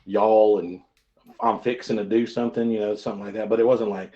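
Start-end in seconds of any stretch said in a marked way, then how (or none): 0.0-0.6 punched Texas Y'ALL; Texas accent. Shown as a demonstration. Streamer recalling childhood speech, Texas accent. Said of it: "my Texas accent". 1.4-2.7 easy Texas twang; Texas accent. Shown as a demonstration. Streamer recalling childhood speech, light Texas accent. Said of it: "my Texas accent".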